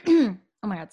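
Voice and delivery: raspy throat-cleared voice; rough, gravelly smoker croak; smoker's rasp. Real, not acted. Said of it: "I sounded like a chain smoker".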